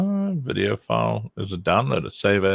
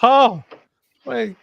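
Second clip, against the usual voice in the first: high, hammed-up Scottish accent for Hamish; mock Scottish accent; 9 semitones higher than usual. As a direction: play Hamish as a comic Scottish type, pitched up. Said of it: "Those were Hamish, like".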